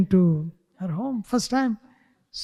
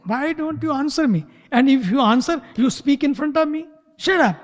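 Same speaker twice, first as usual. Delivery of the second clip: raised, scolding father's rant; angry shouting; 6 semitones higher than usual. Retold or imitated. Father scolds silent daughter, raised angry voice. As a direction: scold her higher and harder. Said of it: "You shout more".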